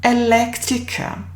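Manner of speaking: Elektriker said the German way; German pronunciation. Shown as a demonstration. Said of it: "German word for electrician is".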